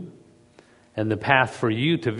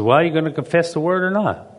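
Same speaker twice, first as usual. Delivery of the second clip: challenging husband; 6 semitones higher, faster than usual. Retold or imitated.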